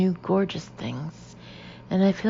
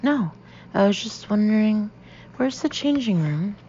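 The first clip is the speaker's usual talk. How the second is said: startled; 4 semitones higher than usual. Acted. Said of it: "and I jump".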